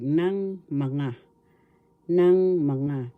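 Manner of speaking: "nang mga" said as nang ma-NGA; pronunciation demo. Shown as a demonstration. Teacher showing Tagalog pronunciation, deliberate "nang mga" as nang ma-nga. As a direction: carefully separate "nang mga", voicing mga as ma-nga. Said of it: "This is how it is pronounced".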